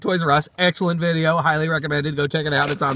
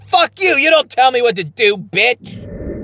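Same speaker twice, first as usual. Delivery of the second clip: mock angry yell; 3 semitones higher, slower than usual. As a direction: bark it at her. Yelling at catfish.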